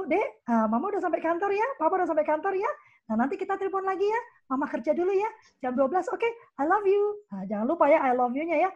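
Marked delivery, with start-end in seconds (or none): 0.1-7.0 put-on tender phone call to child. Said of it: "Telepon dulu".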